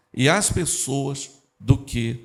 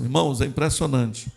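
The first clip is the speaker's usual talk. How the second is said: ordinary talk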